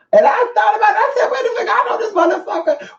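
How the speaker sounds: cracking up while telling it; laughing. Real, not acted. To the viewers, laughing at the ex's message.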